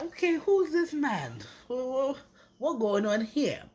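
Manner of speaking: high-pitched, puzzled double take; mock bewilderment, pitched well up; baffled reaction. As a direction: act out being thrown by a newcomer. Acting out her first puzzled reaction.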